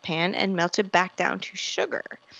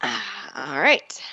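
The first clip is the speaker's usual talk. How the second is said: breathy whispered all right; 5 semitones lower, slower than usual. Real, not acted. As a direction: whisper it to yourself, steeling up. Bracing for the challenge.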